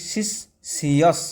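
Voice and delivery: শিষ্যস stretched out, each syllable apart; very slow syllables. Shown as a demonstration. Teacher slowly breaking up শিষ্যস for the students. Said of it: "ভেঙে দিয়েছি".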